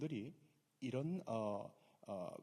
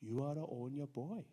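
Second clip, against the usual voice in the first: slow English reading; much slower than usual. Shown as a demonstration. Preacher quoting Saul in English, very slow. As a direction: read the English very slowly. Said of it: "영어로는 그걸 이렇게 표현해요".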